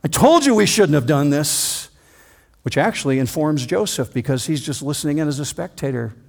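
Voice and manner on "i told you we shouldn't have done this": a touch of smug reproach, stress on told; lightly voiced Reuben rubbing it in; mild I-told-you-so from the older brother. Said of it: "Reuben piles on".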